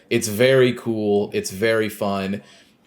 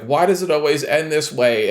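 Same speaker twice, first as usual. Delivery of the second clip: higher-pitched imitated lament; mock lament; 5 semitones higher than usual. Otacon despairing in a retelling, mock lament. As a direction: lament it with mild melodrama.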